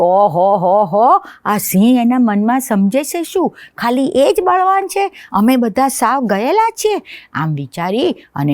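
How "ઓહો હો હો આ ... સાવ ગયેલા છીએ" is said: mosquito's thoughts, pitched higher and rising to a peak; a cocky tiny insect scoffing at the lion; proud little mosquito. Acted. Mosquito voiced in children's story. (ઘમંડી નાનું મચ્છર)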